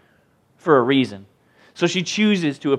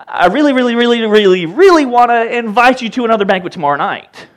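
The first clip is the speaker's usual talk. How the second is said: coaxing queen; 7 semitones higher, 7 dB louder than usual. Retold or imitated. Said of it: "where she's like".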